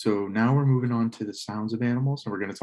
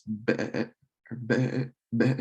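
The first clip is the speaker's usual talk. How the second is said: sheep bleat attempt; much slower than usual. Shown as a demonstration. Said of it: "a sound I can't really do".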